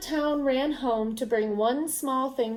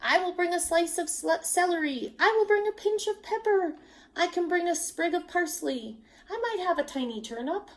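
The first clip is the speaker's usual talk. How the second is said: higher eager villagers; eager offers; 7 semitones higher than usual. A narrator's reading. Villagers announcing their gifts, eager and high. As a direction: pile on offers one after another. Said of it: "voices announced".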